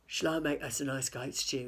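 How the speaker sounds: a troll eagerly offering stew. A narrator's reading. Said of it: "he asked".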